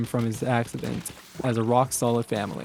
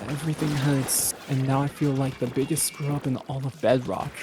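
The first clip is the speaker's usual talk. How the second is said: distressed. Acted. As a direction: let the words sag with pain. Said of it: "he said in a distressed voice".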